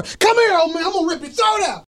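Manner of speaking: growling ghoul threat; monster voice. Acted. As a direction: snarl it like a ghoul.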